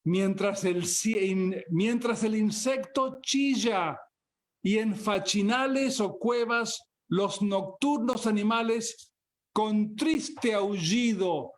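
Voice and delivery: measured, solemn poetry reading; poem recital. Acted. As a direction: recite it like an epic gaucho poem under the night sky. Reads a Spanish poem aloud.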